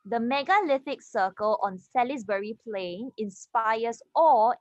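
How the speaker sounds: clear, steady reading voice; model reading aloud. Shown as a demonstration. Teacher reads the passage aloud for students to copy. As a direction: read it out as the class model.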